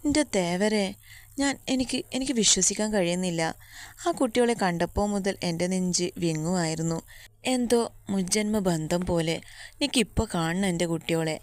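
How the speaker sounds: she can barely believe it and demands to see them; overwhelmed insisting. Acted. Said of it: "അവർ വാശി പിടിച്ചു".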